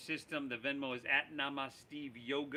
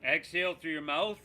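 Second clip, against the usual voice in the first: loud breath cue; 6 dB louder than usual. Shown as a demonstration. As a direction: exhale cue called out louder. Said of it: "breath cue, louder".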